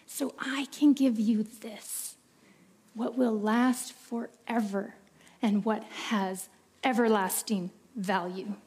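tender divine voice. Acted. God speaks to us.

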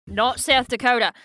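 attempted Australian accent; joking imitation of an Australian speaker. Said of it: "never heard an Australian accent before".

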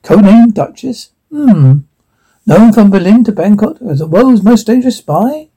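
put-on menacing interrogator with a Russian accent. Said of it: "man in Russian accent".

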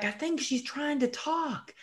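high, hushed mock nurse voice; a high whispery aside between nurses; imitating a nurse. Nurse to nurse at the bedside, high hushed mock voice.

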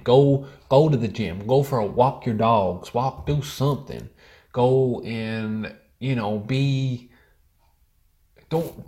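a put-on patriotic American accent, ranting. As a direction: rant like a fed-up American patriot. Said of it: "We'll go full patriotic American".

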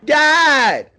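high, loud mock shock; shocked shout. Real, not acted. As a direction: blurt it out in fake shock. Shocked joke reply.

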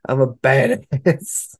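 slow mock tough-guy brag; lightly voiced swaggering badass; drawn-out mock boast. Mocking tough-guy persona.

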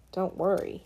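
soft, flat and toneless; flatly. Acted. Boy tells Amanda not to worry, soft and flat. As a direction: shrug it off, no feeling in it. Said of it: "he said flatly".

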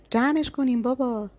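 shout. A narrator's reading. Saeed cutting off the argument, slow loud yell. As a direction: cut in with a shout. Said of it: "سعید وسط حرفش داد زد".

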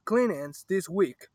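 talking while chewing gum. Real, not acted. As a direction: speak around a wad of gum. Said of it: "Stop chewing gum".

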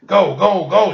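urgent cheer. A narrator's reading. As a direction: urge the sub on at full voice.

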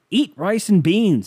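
loud, high, slow command; host's catchphrase. Retold or imitated. Host ordering indebted caller, loud mock sternness. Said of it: "he loves saying".

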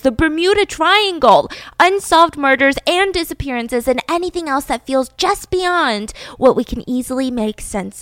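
upbeat, scripted promo delivery; podcast ad read. Acted. Host pitching a new hit podcast to listeners, ad read. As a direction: sell the show to listeners with punchy emphasis.

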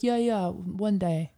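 slow, lazy brush-off; dismissive. Retold or imitated. Mocking the landlord's empty promise, slow and dismissive. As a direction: drag it out like you don't care. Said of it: "so they're like".

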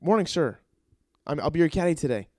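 keen caddy meeting his hero; mock-polite eager hello; eager greeting. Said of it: "I'm like".

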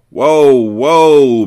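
intervening. A narrator's reading. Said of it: "Monroe intervened".

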